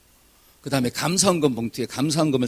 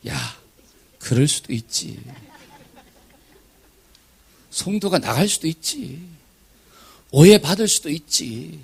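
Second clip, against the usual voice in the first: God's gentle voice; slower than usual. Retold or imitated. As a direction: speak slowly, tenderly reassuring.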